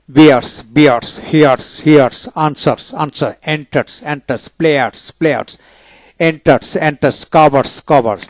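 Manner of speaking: বিয়ার্স ending in a dental "s" after r. Shown as a demonstration. Teacher drilling S after R, dental S demonstration. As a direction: say কভার্স with a clear final "s". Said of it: "দন্তাস্য জুন".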